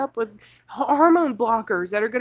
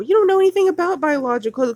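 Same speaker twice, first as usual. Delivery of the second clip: fast, louder, higher scornful outburst; fast scornful retort; indignant retort; 4 semitones higher, 5 dB louder, faster than usual. Real, not acted. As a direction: snap it back in disgust. Mocking the course's wording.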